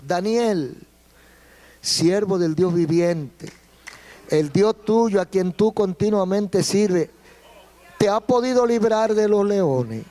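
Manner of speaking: slow, a touch of sorrow as the king calls down; slow sad call from the king into the lions' den. Acted. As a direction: call down sadly, expecting no answer. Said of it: "Él dice aquí con voz triste".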